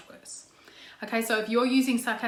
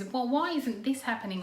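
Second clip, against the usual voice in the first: accusing tone; 2 semitones higher than usual. Shown as a demonstration. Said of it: "someone comes in and goes".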